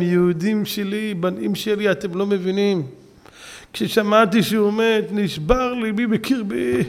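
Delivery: tender explanation. Retold or imitated. Rabbi tenderly explaining his grief.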